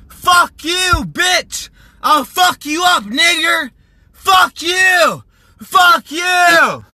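furious yelled insults; angry shouting. Real, not acted.

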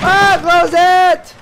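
high, loud, drawn-out yelp. Real, not acted. Player panics over an open door, girlish cry. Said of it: "Why do I sound like a girl?".

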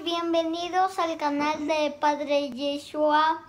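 quick, lilting channel greeting; bright sing-song welcome. Acted. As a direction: sing out the hello to viewers. Kid welcoming viewers to channel.

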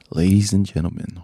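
slow, formal host intro; announcer voice. Acted. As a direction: welcome them like a phone company rep. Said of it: "You sound like you work for A T and T".

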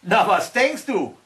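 the slug toying with its prey; giant slug. A narrator's reading. Slug teasing the troll who asked its name, drawn out.

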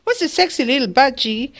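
put-on baby talk. Shown as a demonstration. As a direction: slide into doting baby talk. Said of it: "baby talks to Pedro".

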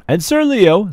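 high, loud, grand announcing; formal little girl. Acted. Jane introducing Leo to her court, grandly. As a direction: introduce him like a herald.

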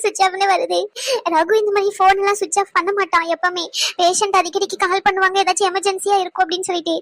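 anxious, teary questioning; tearful. Acted. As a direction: plead through light tears. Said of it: "அழுகுறாங்களா?". (அழுகையோடு பதட்டமாக)

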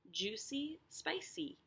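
gentle bounce up on "spicy". Shown as a demonstration. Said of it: "So C is that last syllable".

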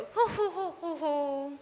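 high laughing ho ho ho. Shown as a demonstration. Teacher laughing at the kite joke for children, high ho ho. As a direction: burst into a real laughing ho ho. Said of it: "કેવી રીતે હસવાનું".

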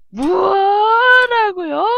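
high, very long swooping howl; exaggerated mock disbelief; hammed-up outrage. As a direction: stretch the first syllable into a rising wail. Replays the outraged game line.

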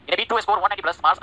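"in a beat to score one ninety plus marks" read very slowly; very slow teacher dictation. Shown as a demonstration. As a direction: drag each word out for dictation. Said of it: "one ninety plus marks".

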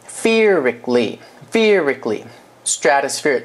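slow, with the stress on fe in "fearically". Shown as a demonstration. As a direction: lean on the first syllable. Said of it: "重音".

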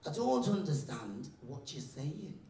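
slowly spelled out for a foreigner; slow, baffled teacher. Acted. Teacher to a kid speaking Farsi, slow and deliberate. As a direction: stretch out each word.

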